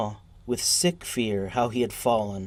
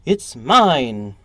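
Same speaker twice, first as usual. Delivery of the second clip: a louder, angry claim; 7 dB louder than usual. Acted. Soapy to the umbrella man, claiming it angrily. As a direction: insist on it with anger. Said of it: "cried Soapy, with anger in his voice".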